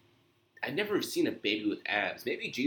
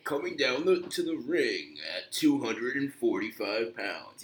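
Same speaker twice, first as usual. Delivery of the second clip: wrestling promo; slower than usual. Shown as a demonstration. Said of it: "You gotta go like that".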